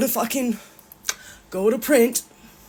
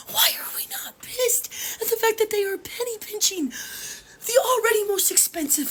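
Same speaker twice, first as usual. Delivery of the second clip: tearful whisper; 4 semitones higher, 4 dB quieter than usual. Real, not acted. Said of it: "I may be crying right now".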